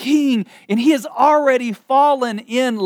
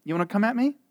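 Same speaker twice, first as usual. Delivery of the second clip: fast, mocking dare rising higher on king; swaggering mock challenge; cocky taunt; 3 semitones higher, faster than usual. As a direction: goad the king like a brash tough guy. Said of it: "we're like".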